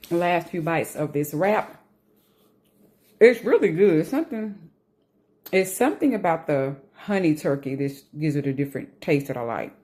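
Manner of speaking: talking with a mouthful; chewing while talking; mouth full. Real, not acted. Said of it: "talking with food in my mouth".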